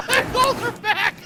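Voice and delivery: high burst of laughter; laughing. Real, not acted. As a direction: crack up mid-sentence. Laughing at the goals returning.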